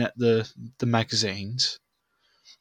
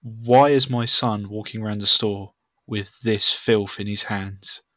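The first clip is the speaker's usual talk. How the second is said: posh English; 5 dB louder than usual. Retold or imitated. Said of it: "speaking Queen's English".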